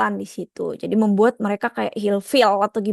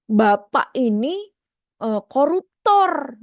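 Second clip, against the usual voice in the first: slow accusation; 3 semitones higher, much slower than usual. Shown as a demonstration. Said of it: "Atau mungkin".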